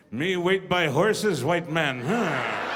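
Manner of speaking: slow, low Hollywood Indian voice; stereotype movie Indian. Retold or imitated. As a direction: parody a stock film Indian. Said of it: "Hollywood auditions one day and go".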